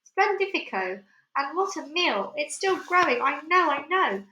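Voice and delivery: high gleeful cries; ecstatic. Acted. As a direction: revel in it. Aunt rejoicing.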